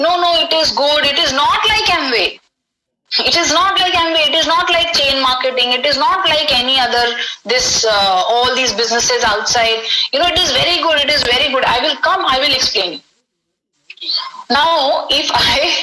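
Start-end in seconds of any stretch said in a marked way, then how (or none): none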